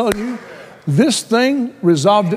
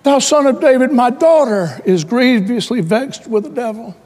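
pleading cry; 5 semitones higher than usual. Retold or imitated. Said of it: "and she cried".

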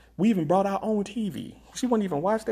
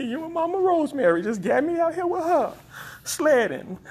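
higher, indignant appeal to dad; indignant plea; 4 semitones higher, 3 dB louder than usual. Pretend. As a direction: scold your father while begging for rescue. Mock appeal to father for rescue.

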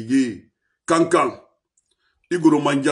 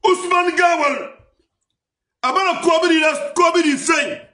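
rally speaker at full force; shouted oratory; 13 semitones higher, 4 dB louder than usual. Acted. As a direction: call the name out to the crowd. Political speech, shouting names.

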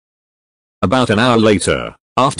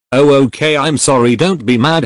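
flustered apology; 5 semitones higher than usual. Acted. Deku placates angry Bakugo.

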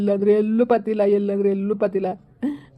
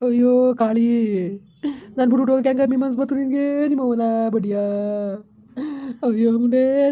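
comic lament for a runaway wife, half-sung; hammed-up crying over his loss; mock wailing. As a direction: ham up the grief of a jilted husband. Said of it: "ಮಾವ, ಅಳ್ಬೇಡಿ".

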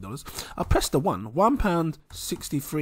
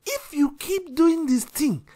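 high voiced scolding mum, mock stern; a mother threatening her child, hammed-up; mum telling off a kid. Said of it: "she don't say Theta".

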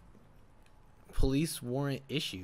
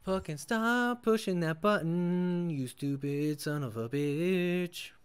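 slow angry scolding; 5 semitones higher, slower than usual. Real, not acted. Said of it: "Yes, I'm talking to myself".

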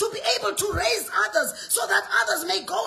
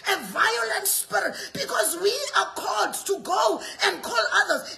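forceful sermon cadence; preaching. Acted. Preacher rousing the church about evil times, forceful. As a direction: preach it to the congregation.

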